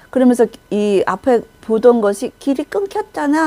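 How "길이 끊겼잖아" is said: a sharp turn toward the follower; mild angry cry. Retold or imitated. Leader spinning round at the broken path, a touch of anger. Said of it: "하면서 확 돌았어요".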